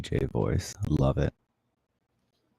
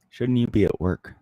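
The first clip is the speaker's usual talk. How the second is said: cat message; 6 semitones higher than usual. Real, not acted. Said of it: "That's my ultimate, cat message".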